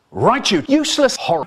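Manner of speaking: high scolding snap; angry mum. Retold or imitated. Mum catching dad with May, a high scolding snap. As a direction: tell him off sharply. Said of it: "Mum says".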